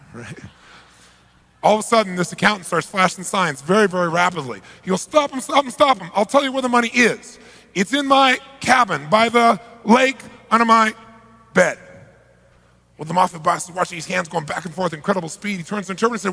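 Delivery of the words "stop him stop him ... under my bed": much higher, urgent panicked plea; panicked pleading. Retold or imitated. Accountant at gunpoint begging them to stop, panicked and high. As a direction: beg for your life in a rush.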